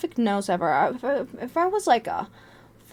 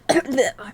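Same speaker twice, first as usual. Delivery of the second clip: short mock cough; quick imitation of a helpless cough; acted cough; 2 semitones higher than usual. Sick student struggling through the test, mock cough. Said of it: "while I'm fucking coughing and dying".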